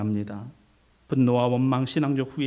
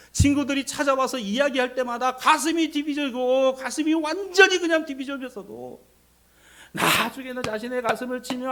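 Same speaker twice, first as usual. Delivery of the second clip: impassioned preaching; 11 semitones higher, 8 dB louder than usual. Acted. Preacher voicing Job's bitter complaint to God, impassioned. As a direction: pour out the lament in raised preaching voice.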